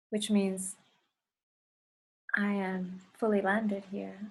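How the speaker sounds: measured reflection, spaced out in short phrases; guided meditation. Acted. Leader asks the group to connect to the heart, guided meditation. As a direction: let each phrase settle before the next.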